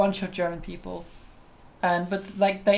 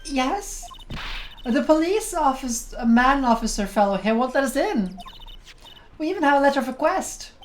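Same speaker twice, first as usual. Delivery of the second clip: lightly voiced girl, pitched higher; a hint of an eager young sleuth; eager girl investigator; 6 semitones higher than usual.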